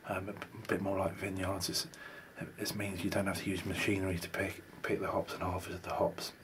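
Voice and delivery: words through a closed badger mouth; talking with mouth closed. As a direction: speak without moving your lips. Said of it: "How do you talk without moving your mouth".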